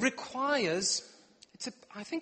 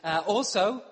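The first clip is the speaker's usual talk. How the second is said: fast explanation; 2 semitones lower, faster than usual. Retold or imitated. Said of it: "what I mean is".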